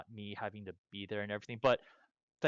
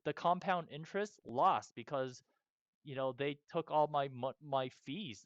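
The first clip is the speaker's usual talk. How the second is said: worked up; 3 semitones higher, 4 dB louder than usual. Real, not acted. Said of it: "you're still pretty worked up about it".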